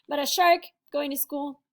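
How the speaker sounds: whispered playful question. Acted. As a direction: whisper it like a secret. Teacher mocks idea.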